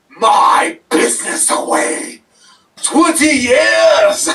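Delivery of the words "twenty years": furious shout. Acted. Wrestler raging at the interviewer, slow furious shout. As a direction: stretch it out slowly, much higher and louder.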